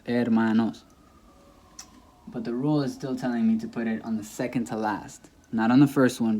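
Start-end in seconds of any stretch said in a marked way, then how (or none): 0.1-0.8 "hermanos" measured out as er-MA-nos; syllable by syllable. Shown as a demonstration. Teacher counts syllables for the class, "hermanos" said as er-MA-nos. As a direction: sound out all three syllables of "hermanos". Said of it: "now has three syllables".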